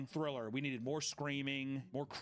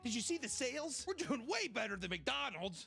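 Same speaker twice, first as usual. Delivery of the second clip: mock excited fan; 8 semitones higher than usual. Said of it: "as if people are like".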